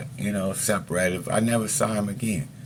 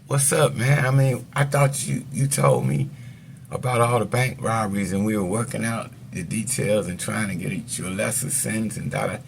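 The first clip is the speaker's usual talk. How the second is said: retelling a furious lawyer's outburst; lawyer mad; 3 semitones higher than usual. Retold or imitated. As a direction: throw the lawyer's anger at him. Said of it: "he mad as shit".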